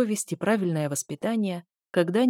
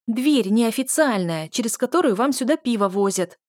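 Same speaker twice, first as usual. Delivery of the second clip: angry hiss; 3 semitones higher, 4 dB louder than usual. Acted. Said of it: "злобно прошипела я".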